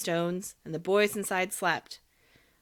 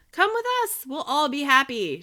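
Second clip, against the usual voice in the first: high, louder voices calling together; chorus of boys shouting; 8 semitones higher, 5 dB louder than usual. A narrator's reading. Boys in the coach shouting to Pinocchio, high and loud. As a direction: call out like a crowd of eager boys. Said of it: "shouted hundreds of voices together".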